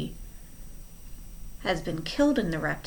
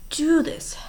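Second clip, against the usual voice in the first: higher pitched urgent whisper; hoarse whisper; 8 semitones higher, 4 dB louder than usual. Acted. Klaus accuses Stefano, higher urgent whisper. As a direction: breathe it out in disbelief. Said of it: "Klaus whispered hoarsely".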